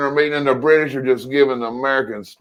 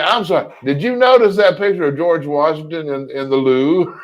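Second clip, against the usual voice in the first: snickering British official. Retold or imitated. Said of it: "he said".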